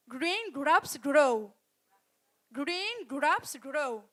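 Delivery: slow and deliberate; each word separate; slow careful repeat. Shown as a demonstration. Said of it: "you have to say".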